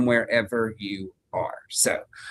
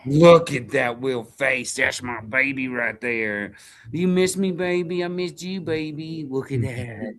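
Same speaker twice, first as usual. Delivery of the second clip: cooing at the dog; slower than usual. Real, not acted.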